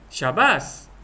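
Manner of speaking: demonstrated glad congratulation; pleased "well done"; happy praise. Shown as a demonstration. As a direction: praise them cheerfully. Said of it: "itu intonasi dia lah".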